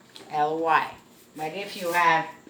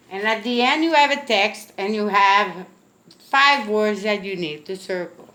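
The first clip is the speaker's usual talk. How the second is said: louder teacher; 7 dB louder than usual. Real, not acted. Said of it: "teacher raises voice".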